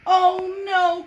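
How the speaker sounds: put-on high, loud child's plea; child's loud dismayed oh no; little girl crying out. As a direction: plead like a small girl upset. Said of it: "cried Sue".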